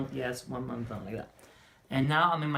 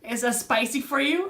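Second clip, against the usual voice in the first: imitated concerned technician; 9 semitones higher, 5 dB louder than usual. Technician asks after zap, retold.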